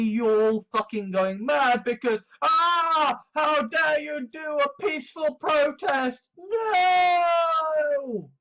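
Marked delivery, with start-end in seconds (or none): 2.4-8.3 mock wail. Mocking protest outrage.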